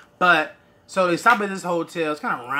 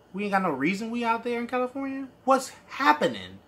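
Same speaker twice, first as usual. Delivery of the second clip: exasperated complaint. Retold or imitated. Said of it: "I'm like".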